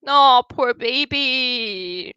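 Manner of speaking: slow, drawn-out pity for the cat; cooing. Real, not acted. A streamer cooing over a viewer's sad old cat, slow and tender. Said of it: "said twice, cooing then plain".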